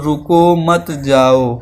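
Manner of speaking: slow, evenly stretched "रुको मत जाओ"; neutral sample sentence. Shown as a demonstration. Teacher saying a sample sentence to students, slow. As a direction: read "रुको मत जाओ" out slowly, as an example. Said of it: "मैं एक sentence बोलूँ".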